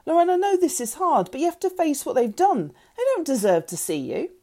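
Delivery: high, pressing argument easing down; urgent reasoning. A narrator's reading. Father reasoning with upset daughter, urgent. Sam arguing in family row.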